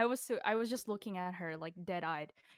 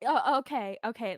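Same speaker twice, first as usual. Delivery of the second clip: curt retold annoyance, louder at first; angry customer; 5 dB louder than usual. Customer told of an extra charge, angry. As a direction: imitate a mildly angry customer giving in. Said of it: "she was so angry".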